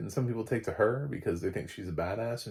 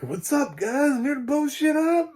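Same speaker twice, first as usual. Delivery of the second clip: much higher and louder, swaggering; cocky badass entrance; 7 dB louder than usual. The new character greets Alexandria, cocky and loud. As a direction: strut in and announce yourself.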